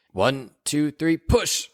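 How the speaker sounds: high, urgent push call; midwife coaching. Acted.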